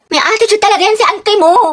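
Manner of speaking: high, loud gossiping; too-loud gossip. Acted. Friend gossiping within earshot of next section, too-loud gossip. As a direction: gossip with no volume control. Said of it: "hina mo yung boses mo".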